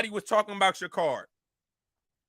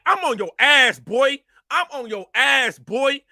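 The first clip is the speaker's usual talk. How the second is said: louder, punchy warning; loud threat; 5 dB louder, slower than usual. Real, not acted. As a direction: bark the threat at him. Threat shouted at rival.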